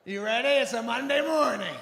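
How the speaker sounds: high, sing-out mock cheer; real positive teacher. Comic mimics spin teacher greeting class, too-happy call. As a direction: imitate an overly happy fitness instructor. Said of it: "real positive teachers".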